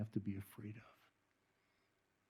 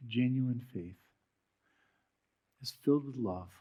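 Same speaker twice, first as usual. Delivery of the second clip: closing prayer. Acted. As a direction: pray earnestly over the congregation.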